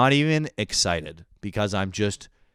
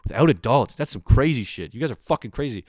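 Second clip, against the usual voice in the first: shocked disbelief; 7 semitones higher, 5 dB louder than usual. Retold or imitated. Reacting in disbelief to friends.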